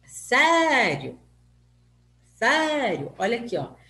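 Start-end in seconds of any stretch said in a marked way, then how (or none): 0.1-1.2 "sério" with the first vowel stretched loud and high; stressed vowel demo. Shown as a demonstration. Teacher showing pupils a diphthong, exaggerated stress on "sério". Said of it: "pronuncio uma mais forte que a outra". 2.4-3.1 "sério" with a loud, raised first vowel; stressed vowel demo. Shown as a demonstration. Teacher repeating an example for pupils, exaggerated stress on "sério". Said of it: "pronuncio uma mais forte que a outra".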